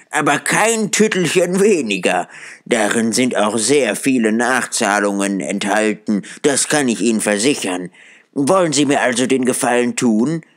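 put-on quick, eager old man pressing his point; insistent Scrooge. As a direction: urge him, smiling and hurried.

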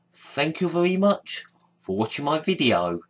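badly faked Welsh accent; a clumsy try at a Welsh accent. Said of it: "sorry for the bad Welsh accent".

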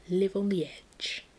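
slow, stretched catchphrase; drawn-out motto. Pretend. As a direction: stretch out "Live on the edge". Repeats the motto for effect.

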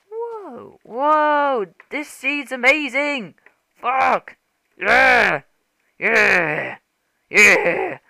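high, loud excited cheers; real thrill, high and loud. Real, not acted. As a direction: whoop at the amazing view. Thrilled by the seed.

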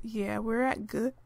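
words broken by hiccups; hiccuping and coughing. Real, not acted. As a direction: talk through a tickly cough. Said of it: "I'm hiccuping and I'm coughing".

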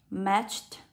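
matched ending in a voiceless t; final T sound. Shown as a demonstration. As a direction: release a clear t at the end of matched. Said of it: "được đọc cho cô là âm T".

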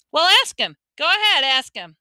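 high, loud retort; heated challenge. A narrator's reading. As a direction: throw the challenge back at Mom. Son arguing with scolding mother.

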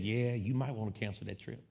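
low, softened aside as the cousin; subdued imitation of a doubtful relative; reluctant cousin. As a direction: let it drop low and quiet, reluctantly. Voices reluctant cousin in retold exchange.

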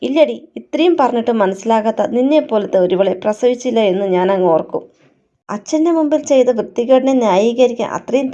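understated indignant rebuke, firm and emphatic; acted reproach with mildly heated stresses; angry confrontation. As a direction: lay into her with controlled anger. Daughter confronts mother before leaving home.

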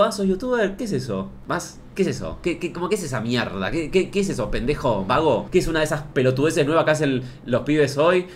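lightly voiced blunt old barber; a plain gruff everyday question; pregunta normal. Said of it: "si el tipo me lo preguntara normal". (apenas imitando a un peluquero directo)

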